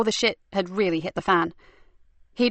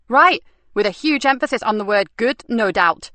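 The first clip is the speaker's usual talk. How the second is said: sarcastic; 3 semitones higher, 5 dB louder than usual. Acted. Nikki sarcastic about good.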